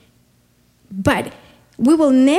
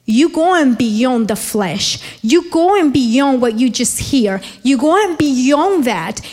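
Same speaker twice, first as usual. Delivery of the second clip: slow, rising preaching build; building sermon; slower than usual. Acted. Preacher lifting the congregation beyond the flesh.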